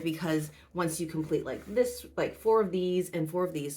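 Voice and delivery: muffled, as if through a hand. Real, not acted. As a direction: talk from behind your hand. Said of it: "sorry if I'm muffled".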